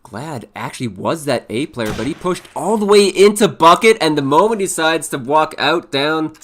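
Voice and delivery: fast, lively play-by-play; esports caster. Acted. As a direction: call the round live, energetic. Live play-by-play of the round.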